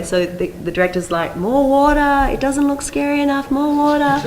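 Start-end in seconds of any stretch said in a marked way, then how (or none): 1.4-4.3 high, louder demanding call; director calling out. Retold or imitated. Director demanding more water for a scarier shot, calling out high. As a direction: mimic a director shouting orders on set.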